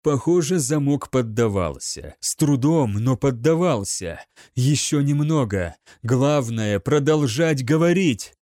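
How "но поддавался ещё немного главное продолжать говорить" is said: ordinary delivery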